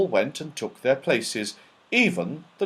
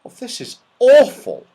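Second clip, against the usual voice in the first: gloomy; 12 semitones higher, 9 dB louder than usual. A narrator's reading. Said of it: "said Joe gloomily".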